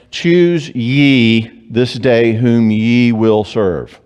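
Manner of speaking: very slow, weighty recitation of "Choose ye this day"; solemn scripture quote. Retold or imitated. Preacher quoting Joshua to the people, slow and solemn. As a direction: intone it like a biblical command.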